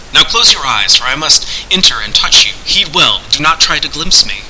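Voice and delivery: lightly declaimed voice of a hidden master; instructing sorcerer. Acted. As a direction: instruct him with formal gravity. Voices Pendulum warning Turgeon.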